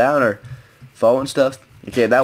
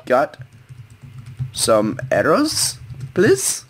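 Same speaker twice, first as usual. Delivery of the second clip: pleading; 2 semitones higher, much slower than usual. Real, not acted. Begging teammate for arrows.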